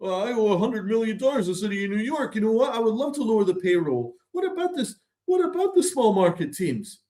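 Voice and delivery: mock Hal Steinbrenner. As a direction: play a self-pitying billionaire owner, hammed up. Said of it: "and he's like".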